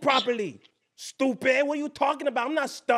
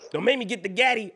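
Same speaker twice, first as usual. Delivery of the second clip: ordinary talk, nothing marked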